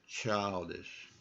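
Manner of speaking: put-on childish with the L clearly sounded; showing the L. Shown as a demonstration. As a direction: lean on the L in childish. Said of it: "hear that L working again".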